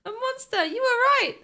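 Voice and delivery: lightly voiced spirited girl; playful girl voice. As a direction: tease like a cheeky sidekick. Voices Maya teasing.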